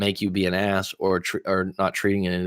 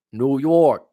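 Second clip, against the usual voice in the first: higher, moderately loud echo of a holler; toned-down shout-out; 5 semitones higher, 5 dB louder than usual. Pretend. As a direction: call the city name out, holding back a little.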